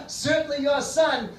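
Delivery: high, slow teasing line after a laugh; amused mother. Acted. Mother teases father after his slap, lightly amused. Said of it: "The mother starts laughing".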